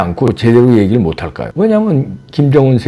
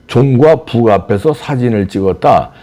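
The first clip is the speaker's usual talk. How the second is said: mock-reading his post. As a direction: parrot the post with a sneer. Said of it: "이러면서 … 조롱합니다". (비아냥거리며 읽기)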